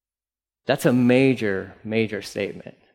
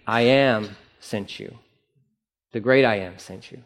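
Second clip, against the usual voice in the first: solemn God voice; 3 semitones lower than usual. Acted. God answering Moses, slow and low.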